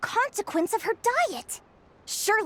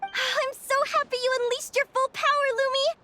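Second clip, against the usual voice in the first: happy sigh; 8 semitones higher than usual. Acted. Cheerful after battle win.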